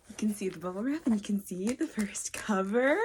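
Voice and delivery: whispering the reveal in awe; awed whisper. Real, not acted. Showing viewers the first cover, whispering in awe. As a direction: breathe it out, hushed and amazed.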